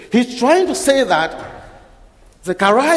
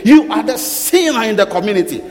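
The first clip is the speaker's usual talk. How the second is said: preacher building to a fiery, higher peak; rising preaching; 3 semitones higher than usual. Acted. Preaching builds to full force.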